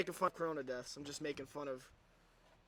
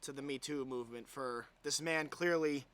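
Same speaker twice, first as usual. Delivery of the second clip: sarcastic apology; 4 semitones lower than usual. Pretend. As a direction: fake remorse, dripping irony.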